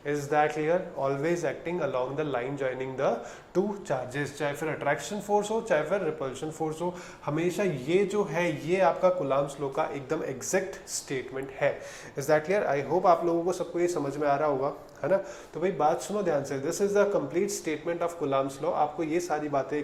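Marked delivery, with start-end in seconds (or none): 1.0-4.3 slow, stressing each word; slow emphasis. Shown as a demonstration. Teacher repeating the last clause slowly. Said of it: "repeats the key clause slowly". 16.6-18.7 very slow, weighty summary; slow and deliberate. Shown as a demonstration. Teacher closing the statement slowly. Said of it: "slow summarising line".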